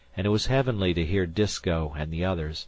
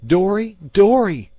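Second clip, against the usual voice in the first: high, loud calling cry; ghostly shout; 13 semitones higher, 11 dB louder than usual. Retold or imitated. Dan retelling the ghost boy, loud ghostly call. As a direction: call out like a drowned boy from the fog. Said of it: "he'd rowed alongside and shout".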